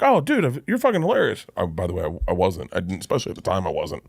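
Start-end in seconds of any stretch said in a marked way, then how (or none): 0.0-1.5 high, gushing praise voice; imitating Adam Sandler. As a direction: play the star raving about you. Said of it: "he'd be like".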